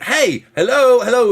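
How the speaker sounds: hey, get over here; calling out. Retold or imitated. Ignored at the counter, calling the worker.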